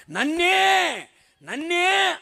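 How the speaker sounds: high, loud anguished "me, me"; wounded high shout; hurt cry. Retold or imitated. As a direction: cry out as if stung by the insult. Wife hurt by taunt, crying out.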